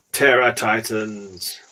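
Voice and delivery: "Terror Titans" said very slowly, stress on "Terror", falling at the end; slow, careful. Shown as a demonstration. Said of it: "You've got to practice saying that".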